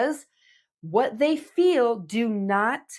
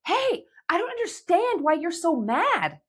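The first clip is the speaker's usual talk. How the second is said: firm break-in; 8 semitones higher than usual. Shown as a demonstration. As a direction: cut through their anger firmly. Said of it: "say it".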